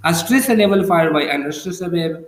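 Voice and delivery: very slow, word-by-word definition; slow dictation. Shown as a demonstration. Teacher defining the trochee in very slow dictation. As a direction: lay each word down slowly for note-taking. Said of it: "stress और unstress हो जाएगा।".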